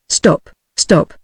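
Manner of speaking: mildly pleading, timbre shifted. A narrator's reading. Octopus begging the girl to stop, mildly pleading. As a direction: beg lightly for it to end. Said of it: "in a pleading voice".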